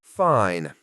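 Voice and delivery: huffed. Acted. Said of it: "he huffed".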